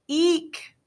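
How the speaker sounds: high startled eek; frightened squeak. A narrator's reading. Hamster remembering scary Halloween, startled squeak.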